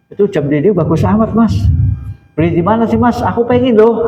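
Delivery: lightly acted admiring, envious guest; gushing guest. Guest admiring host's wall clock.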